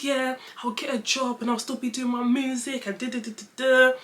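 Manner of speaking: lightly high-pitched, milder imitation of herself; retold promise. Daughter telling dad her plan, mildly put-on pleading. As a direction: imitate an eager promise without the wailing. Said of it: "I said".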